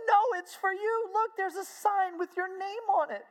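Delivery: high, insistent crowd voice; retold excited reassurance. Crowd insists to stunned woman.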